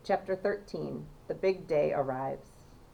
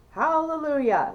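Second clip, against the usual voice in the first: louder, higher cry of triumph; joyful yell; 9 semitones higher, 6 dB louder than usual. A narrator's reading. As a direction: shout it to the heavens. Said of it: "yelled Grandpa Joe".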